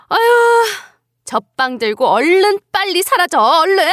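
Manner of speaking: sneering mother-in-law ordering her away; mock her, then dismiss her impatiently; scornful mother-in-law. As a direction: contempt rising to an exasperated order.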